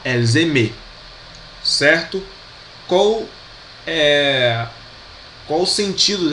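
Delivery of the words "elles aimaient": Elles aimaient said el-zeh-MEH; model pronunciation. Shown as a demonstration. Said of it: "tem um som, né, de E".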